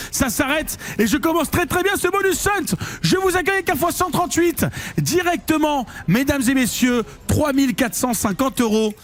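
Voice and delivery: excited showman. Real, not acted. Presenting big win to viewers.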